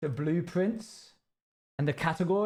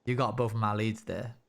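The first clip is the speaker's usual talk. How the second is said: cowboy voice. Acted. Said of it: "leave the cowboy voice behind".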